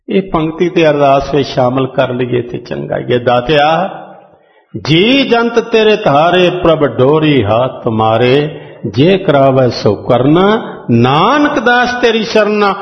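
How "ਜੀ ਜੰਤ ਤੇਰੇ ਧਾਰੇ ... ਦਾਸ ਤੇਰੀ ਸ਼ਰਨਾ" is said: slow, drawn-out recitation of scripture; gurbani recitation. Acted. Preacher reciting gurbani to the congregation, slow and devout. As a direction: intone each phrase slowly and devoutly.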